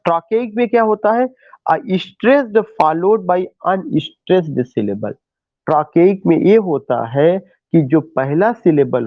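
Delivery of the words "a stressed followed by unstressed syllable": slow dictation. Shown as a demonstration. Teacher dictates definition.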